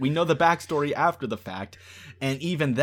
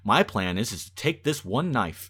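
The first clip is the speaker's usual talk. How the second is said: builds from plain to much louder and higher; mock scheming plan; 4 semitones higher, 10 dB louder than usual. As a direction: rattle off a crazy plan, rising to a shout. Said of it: "And you thought".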